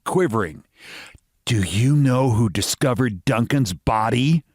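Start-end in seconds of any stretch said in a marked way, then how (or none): 1.4-4.4 demanding. Acted. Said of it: "she demanded".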